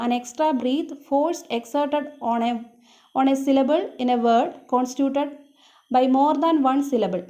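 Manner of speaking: very slow, each word spaced out for note-taking; slow dictation. Shown as a demonstration. Teacher dictates English definition slowly.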